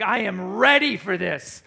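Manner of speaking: slow, intense declaration; psyched-up psycho. Acted. Lifter turning psycho before the lift, psyched-up. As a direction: hammer it out, hyping yourself into a mild frenzy. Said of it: "turning into a psycho".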